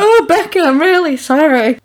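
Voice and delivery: put-on high, loud apology in Yorkshire accent. Film character apologising to her housemate, mock-wailed Yorkshire accent. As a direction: wail the apology, broadly Yorkshire. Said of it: "She doesn't say it in a, uh, Yorkshire accent".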